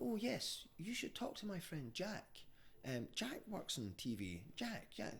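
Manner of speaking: put-on high, airy posh English accent; mocking an upper-class English voice. Mimics posh Oxford girl.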